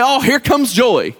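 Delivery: acted delighted welcome, drawn out slowly; mock glad greeting. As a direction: play someone happily announcing an arrival. Imagined welcome as someone enters.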